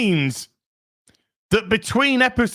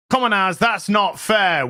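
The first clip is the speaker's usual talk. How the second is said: mock protest; 3 semitones higher than usual. Mock protest shouting at self.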